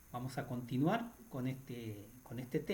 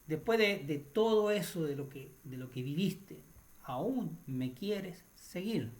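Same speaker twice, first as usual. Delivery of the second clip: higher and louder, the last question drawn out very slowly; Jesus asking earnestly; 3 semitones higher, 3 dB louder than usual. Acted. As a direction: plead with the child, stretching the final question. Jesús le habla al niño. (Jesús, más agudo y fuerte, pregunta final muy lenta)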